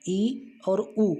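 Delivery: each vowel drawn out slowly; slow listing. Shown as a demonstration. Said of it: "ये तीन मात्राएं". (धीरे-धीरे हर स्वर बोलें)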